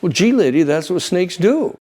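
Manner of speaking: lightly voiced snake, unhurried and dry; mock snake reply. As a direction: shrug it off as the unbothered snake. Snake answers in fable.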